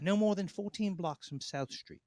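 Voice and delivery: a lightly hammed Philly accent; mock Philly accent. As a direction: play a crude Philly local ordering. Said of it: "fake accent sounds better".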